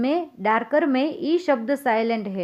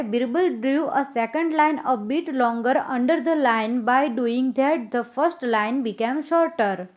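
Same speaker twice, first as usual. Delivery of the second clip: very slow, evenly spaced English read to pupils; slow dictation reading; much slower than usual. Acted. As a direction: read it word by word so children can follow. Teacher reads answer slowly to class.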